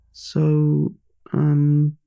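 talking through a mouthful; mouth full. Acted. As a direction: chew while asking. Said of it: "With my mouth full".

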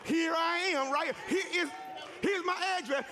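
shouted calling out, laughing; mock yell. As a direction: call out where you are, waving. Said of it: "you're gonna have to yell".

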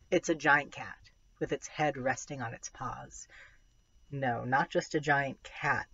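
put-on expressive first-person children's novel reading; story narration. A narrator's reading. Reader sharing a tiger novel with listeners, story narration. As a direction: read it aloud with suspense and wonder.

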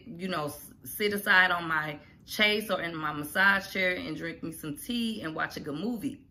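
usual speaking voice

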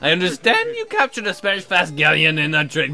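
a hint of a grand old governor, slow; lightly voiced pompous governor. Governor welcoming the captain, lightly pompous. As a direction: greet the captain like a self-important governor.

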